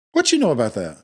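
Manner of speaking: put-on laughing old-lady retort; old person voice. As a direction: sound like an old auntie. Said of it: "You sound like an old person".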